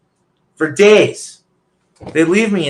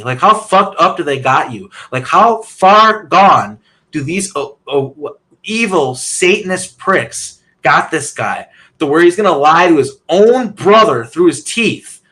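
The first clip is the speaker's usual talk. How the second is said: angry; 4 dB louder than usual. Real, not acted. Furious rant about his brother.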